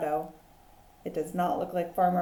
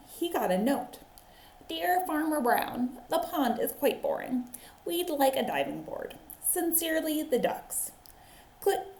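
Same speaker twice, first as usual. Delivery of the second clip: put-on lively read-aloud for children; animated picture-book reading; story narration. A narrator's reading. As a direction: tell it like a teacher at story time.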